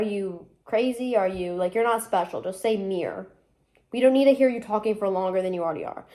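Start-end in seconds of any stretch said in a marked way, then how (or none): 2.8-3.3 "mirror" cut to a single syllable, meer; one-syllable pronunciation. Shown as a demonstration. Telling others to drop the syllable, one-syllable "mirror". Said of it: "why are you adding the extra syllable".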